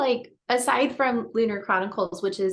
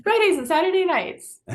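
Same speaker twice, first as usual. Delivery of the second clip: laughing promo; 9 semitones higher, 4 dB louder than usual. Pretend. Continues mock promo laughing.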